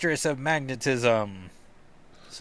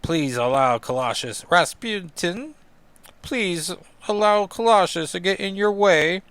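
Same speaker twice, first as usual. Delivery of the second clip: badly faked Russian accent, pitched up toward the end; 6 semitones higher, 4 dB louder than usual. Colossus challenging a Marauder, badly faked Russian accent. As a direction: attempt a hammy Russian accent. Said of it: "how to do a Russian accent".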